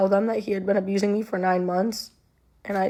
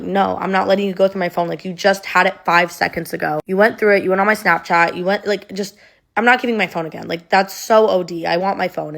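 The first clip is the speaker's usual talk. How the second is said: louder, heated retelling of an argument; indignant retold refusal; 4 dB louder than usual. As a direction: push back firmly, retelling a quarrel.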